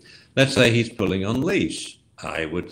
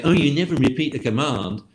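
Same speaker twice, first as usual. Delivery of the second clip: objecting people; 5 semitones higher than usual. Retold or imitated. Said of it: "For the people who say".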